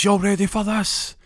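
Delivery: high, loud, drawn-out hype call. Retold or imitated. DJ hyping the dance floor before the drop, big hype call. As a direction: whip the crowd up like a club DJ. DJ hypes the crowd before track.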